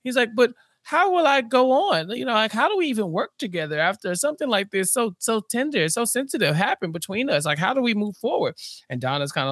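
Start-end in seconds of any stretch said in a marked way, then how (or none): 0.3-8.5 pleading, melodramatic quote; wounded mock lament; mock anguish. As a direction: lightly ham up the self-pity. Mike wallows, voiced mockingly.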